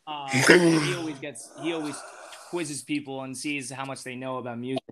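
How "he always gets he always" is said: ordinary delivery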